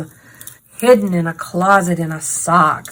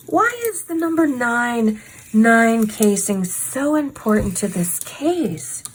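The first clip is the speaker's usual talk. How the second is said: put-on Valley Girl voice; 3 semitones higher, slower than usual. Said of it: "she talks like a Valley Girl slash Claire's manager person".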